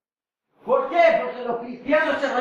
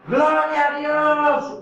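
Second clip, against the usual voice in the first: forced hoarse praise; 3 semitones higher, much slower than usual. Retold or imitated. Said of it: "para que mi voz se haga ronco".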